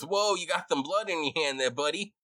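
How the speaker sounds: surprised rat. Acted. Rat grabbing the adventurer's bloody finger, surprised. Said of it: "He goes".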